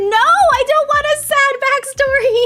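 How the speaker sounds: high, loud pleading whine; dramatic dismay. Real, not acted. Streamer reacting to a sad backstory, mock-distressed. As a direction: beg the game not to be sad.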